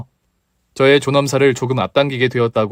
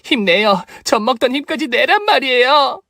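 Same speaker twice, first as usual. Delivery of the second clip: high, pushing encouragement; rally her with everything; urgent cheering; 10 semitones higher than usual. Acted. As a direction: come on, fight for it. Cheering patient to wake.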